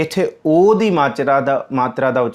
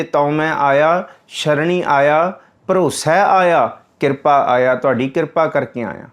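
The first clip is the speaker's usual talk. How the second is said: devotee's plea. Acted. Devotee pleading at the door.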